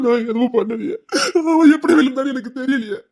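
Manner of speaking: crying, pleading innocence; tearful protest. Acted. Accused man crying that he did nothing, tearful plea. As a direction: sob out that you did nothing.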